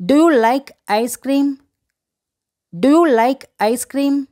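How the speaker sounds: slow, measured teacher demonstration; slow model phrase. Shown as a demonstration. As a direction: say it slowly for learners to repeat. Teacher models English phrase to repeat.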